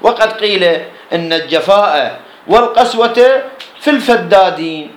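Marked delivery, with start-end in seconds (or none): 3.8-4.9 الفدادين with a doubled first د; doubled consonant. Shown as a demonstration. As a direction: hold the first د of الفدادين long. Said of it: "بالتشديد".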